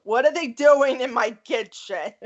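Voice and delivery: put-on indignant New York-accented TV wife; Carmela from The Sopranos. Fan quotes mob wife as FBI arrives, New York accent. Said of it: "Carmela in season one when the F B I shows up".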